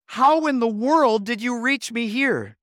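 a startled man still rattled by the call; shaken and perplexed. Retold or imitated. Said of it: "Still shaken, perplexed".

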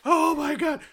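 high, loud gasp of amazement; retold awe. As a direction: exclaim it as if blown away. Retold awe at finished animation.

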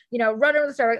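usual speaking voice

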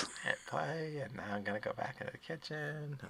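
high brash lunch lady; bossy cafeteria lady. Acted. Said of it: "I should just do both voices".

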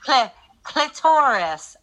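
robot voice loop. Retold or imitated. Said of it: "hitting the play button over and over".

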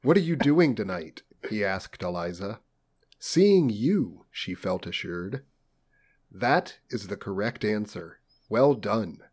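stilted audiobook dialogue; story narration. A narrator's reading. Reads novel dialogue aloud.

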